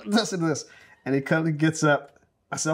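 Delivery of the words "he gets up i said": usual speaking voice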